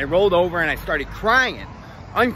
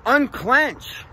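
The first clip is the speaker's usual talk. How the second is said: urging himself; 5 semitones higher, much slower than usual. Retold or imitated. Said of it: "having this fucking thought in my head".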